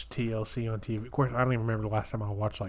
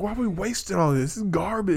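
mock indignant; 8 semitones higher than usual. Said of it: "he was, like, pissed".

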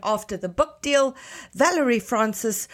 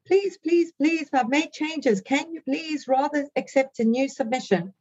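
pleading; 5 semitones higher than usual. Retold or imitated. Writer pleading in email.

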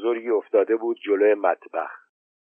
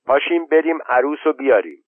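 raised voice to the crowd, a bit higher; loud call; 5 semitones higher than usual. Acted. Old woman rallying the wedding crowd, calling out loud. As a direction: call out to everyone to go fetch the bride. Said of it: "با صدای بلند به جماعت گفت".

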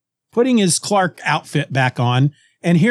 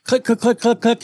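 rapid-fire spoken clicks; imitated camera clicks; 7 semitones higher than usual. Podcaster showing Superman's camera gun, imitated clicks.

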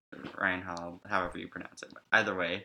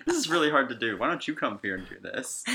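indignant outburst; 5 semitones higher, 5 dB louder than usual. Retold or imitated.

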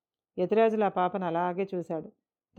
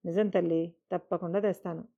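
reassuring promise. Acted. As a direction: reassure her, gently. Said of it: "నమ్మకంగా అన్నాడు". (నమ్మకంగా, మెల్లగా)

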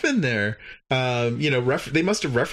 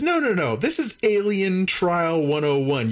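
protesting alien; 5 semitones higher than usual. Retold or imitated. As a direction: pitch up and insist gently. Klar protests mildly.

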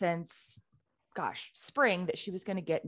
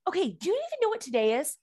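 frantic; 12 semitones higher, 3 dB louder, much faster than usual. Retold or imitated. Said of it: "So I call her frantically".

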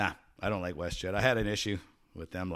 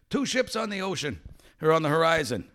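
higher, called-out report; lookout report; 7 semitones higher, 5 dB louder than usual. Retold or imitated. Lookout reporting two ships to the captain, higher call. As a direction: shout the sighting down to the deck. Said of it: "he yells down".

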